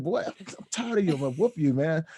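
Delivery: high, loud, fast mock scolding mother. Telling a podcast host how his mother threatened him, hammed-up high loud scold. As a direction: belt it out as an exasperated mom fed up with her kid.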